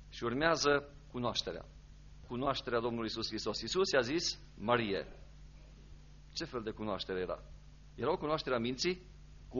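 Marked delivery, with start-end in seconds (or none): 4.6-5.1 low, soft utterance of the name; tender name-calling. Retold or imitated. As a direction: call her gently by name, voice dropped. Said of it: "să pronunțe cuvântul Marie în felul acesta". (chemare blândă pe nume, cu voce joasă)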